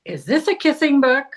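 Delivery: a hint of a whiny kid asking; mimicking the grandson. Retelling the grandson's question in a mild kid voice. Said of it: "when he asked".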